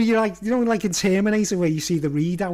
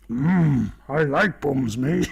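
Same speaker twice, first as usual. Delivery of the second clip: leering Mango; 3 semitones lower, much slower than usual. Shown as a demonstration. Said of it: "repeats the gag".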